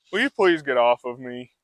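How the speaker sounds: polite request. Retold or imitated. Horse politely asking the trainer to move, soft. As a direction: ask nicely, a mild voiced horse. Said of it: "because that's like".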